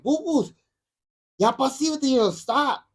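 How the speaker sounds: high-pitched upset scolding, retold. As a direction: imitate an upset grandfather telling a child to stop. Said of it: "And he got upset".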